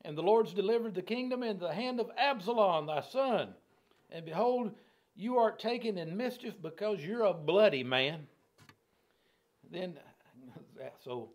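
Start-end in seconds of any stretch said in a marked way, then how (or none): 0.1-8.3 raised, emphatic denunciation; mild accusing declamation. Acted. Shimei telling David his kingdom is lost, mildly heated accusation. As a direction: pronounce judgement with some force.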